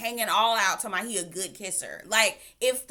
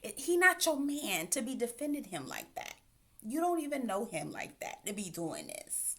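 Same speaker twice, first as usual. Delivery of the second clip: sassy lecture; 4 semitones higher than usual. Retold or imitated. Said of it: "I'm just thinking to myself".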